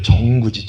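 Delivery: 정구지 with a clear NG in the first syllable; Chungcheong dialect word. Shown as a demonstration. Explaining Chungcheong dialect for chives, 정구지 said clearly. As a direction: say 정구지, not 전구지. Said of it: "정구지라고 그래".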